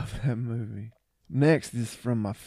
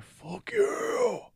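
high squeaky fuck you; silly high-pitched retort; mock squeak. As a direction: pipe it up high in mock outrage. Imitating his own reaction.

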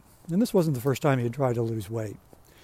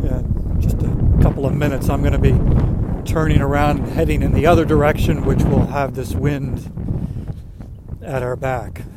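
raised voice against strong wind; shouting over wind; 4 dB louder than usual. Real, not acted. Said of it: "There's some wind for you".

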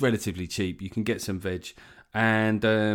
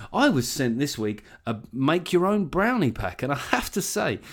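hammed-up sponsor endorsement, pitched up; mock ad read; 4 semitones higher than usual. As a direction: parody a podcaster plugging a product. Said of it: "if I was having to do these reads".

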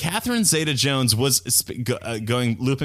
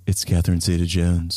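Catherine Zeta-Jones impression; 6 semitones lower than usual. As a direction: purr her own name like a star. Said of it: "refer to themselves in the third person".

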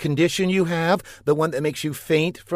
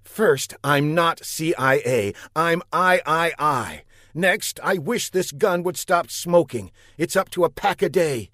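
indignant; 8 semitones higher than usual. A narrator's reading. Marcia rebuffs Buck indignantly.

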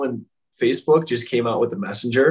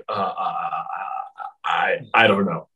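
stammering panic; 3 semitones lower than usual. Retold or imitated. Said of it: "I think I swallowed my tongue".

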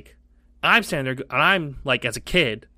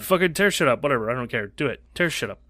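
fast careless dad voice, couldn't care less; unbothered dad; 4 dB louder, faster than usual. Retold or imitated. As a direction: rattle it off like a dad who doesn't care. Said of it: "he's like".

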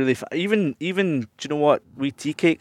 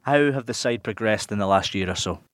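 show host read. Acted. Host reads segment intro.

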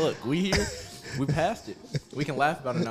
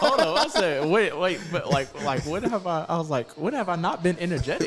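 mock defensive protest; 6 semitones higher, 5 dB louder than usual. S1 retells his defensive reply.

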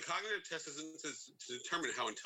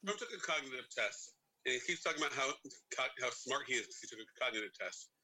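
talking with a burning mouth; words pushed past a fiery mouthful; mouth burning from spicy food. Real, not acted. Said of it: "so hard to talk with my mouth on fire".

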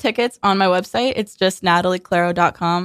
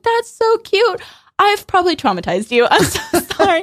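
gushing apology; 11 semitones higher than usual. Retold or imitated. Retold gushing apology to child fan.

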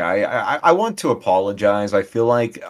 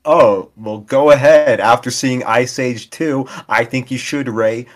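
hammed-up bit voice; 5 semitones higher, 6 dB louder than usual. Improvised Ray Romano role-play.

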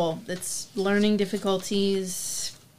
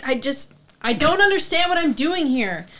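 exasperated protest; 4 semitones higher than usual. Acted. Suspect protests under interrogation.

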